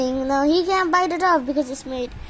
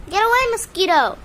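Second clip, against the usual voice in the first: shooing; 6 semitones higher, 5 dB louder than usual. Real, not acted. Shooing a mosquito away.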